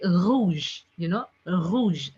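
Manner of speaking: "rouge" said slowly the French way; French pronunciation. Shown as a demonstration. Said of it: "a R sound is there".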